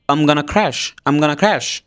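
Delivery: "I'm gonna crash" run together; quick connected speech. Shown as a demonstration. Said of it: "এটা যদি দ্রুত উচ্চারণ করতে যাই". (দ্রুত জুড়ে বলা I'm gonna crash)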